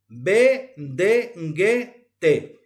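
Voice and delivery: "Be, de, nge, te" each begun with a brief nasal hum; seminasal consonants. Shown as a demonstration. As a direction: recite "Be, de, nge, te" one by one, half-nasal onset then E. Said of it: "cuatro son consonantes seminasales".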